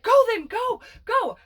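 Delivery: high, urgent shoo. Retold or imitated. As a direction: shoo the puppy off, pitched high. Shooing puppy away.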